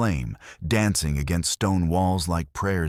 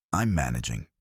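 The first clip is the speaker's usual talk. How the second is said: teeth chattering from the cold; shivering, through chattering teeth; 4 semitones lower than usual. Acted. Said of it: "she said through chattering teeth".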